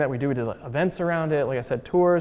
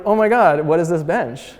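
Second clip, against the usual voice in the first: higher, louder mock amazement; amazed passerby; 4 semitones higher, 6 dB louder than usual. Passerby startled by the bench changing colors, amazed. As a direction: imitate a stunned stranger gasping at the bench.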